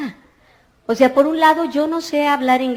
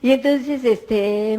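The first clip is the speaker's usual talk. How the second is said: ordinary talk, nothing marked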